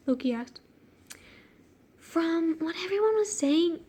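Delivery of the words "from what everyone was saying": lightly put-on annoying character; a hint of an annoying woman. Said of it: "giving her such an annoying voice".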